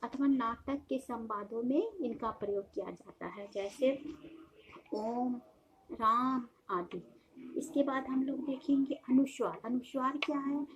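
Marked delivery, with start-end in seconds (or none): 4.9-7.0 ओम and राम with the vowels stretched to triple length; prolonged ओम and राम, chant-like vowel; drawn-out vowels. Shown as a demonstration. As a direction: hold the vowel in ओम and राम long, as if calling out. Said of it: "तीन गुना अधिक समय लगता है".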